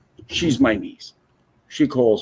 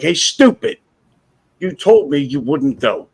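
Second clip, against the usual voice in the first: retold scolding; 3 semitones higher, 7 dB louder than usual. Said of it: "I'm like".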